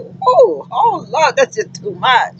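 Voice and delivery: overwhelmed, half-laughing disbelief; amazed whoa. Retold or imitated. Hearing a driver support his wife, overwhelmed whoa. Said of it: "I was like".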